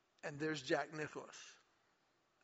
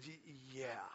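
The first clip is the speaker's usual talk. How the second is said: much softer, faltering yes; stunned yes; 3 semitones lower, 10 dB quieter than usual. Retold or imitated. Ralph answering Nicklaus's offer of tips, stunned and soft. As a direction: barely get it out, dumbstruck.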